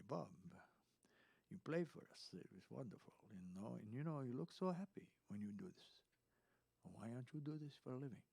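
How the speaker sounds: imitated Italian party guest; Italian accent. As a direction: quote an admirer with an Italian accent. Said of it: "an Italian come up to me and said".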